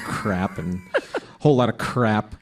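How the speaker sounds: usual speaking voice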